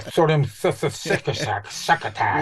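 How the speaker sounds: mocking stumble. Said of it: "You were like".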